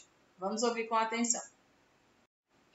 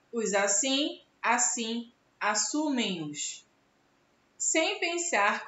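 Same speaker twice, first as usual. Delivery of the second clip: reads the friendship poem aloud, measured and expressive; poem reading. Acted. Teacher reading a poem to her pupils, expressive recital.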